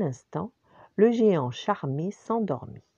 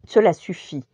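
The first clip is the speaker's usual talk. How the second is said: sudden outcry; 2 semitones higher, 7 dB louder than usual. A narrator's reading. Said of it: "s'écria soudain Samantha".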